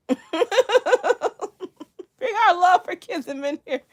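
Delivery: laughing, high and loud. Real, not acted. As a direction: giggle out a mock slogan. Joking mock slogan while laughing.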